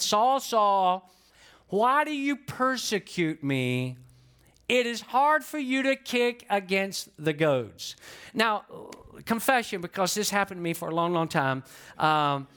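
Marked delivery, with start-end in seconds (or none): 0.0-8.0 voice of Jesus. Acted. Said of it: "here's what the voice said".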